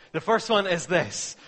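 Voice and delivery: loud fresh restart after a joke. Shown as a demonstration. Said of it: "God, I'm just joking".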